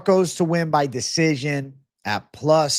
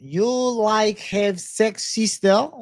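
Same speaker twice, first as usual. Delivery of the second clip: put-on high, drawn-out comic foreign accent; Borat; 6 semitones higher, much slower than usual. Streamer doing a requested Borat impression for the chat, hammed-up accent. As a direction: pitch it up and stretch words in a mock foreign accent. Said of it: "Need the Borat impression again?".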